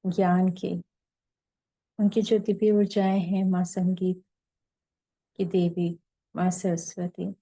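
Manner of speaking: unhurried meditation leader, long pauses between phrases; guided meditation. Real, not acted. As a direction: lead them gently into silence, phrase by phrase.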